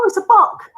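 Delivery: high, loud "buck" with uh vowel; buck with short u. Shown as a demonstration.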